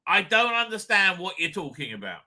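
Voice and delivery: slow shouted editing note; imagined editor's demand. Retold or imitated. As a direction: bark the note in the margin. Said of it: "I'll be".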